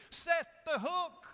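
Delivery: high, loud, drawn-out comic holler; exasperated shout. Acted. Viewer urging the shy TV vet on, exasperated shout. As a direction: yell it at the screen, stretching each word. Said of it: "it drives me crazy".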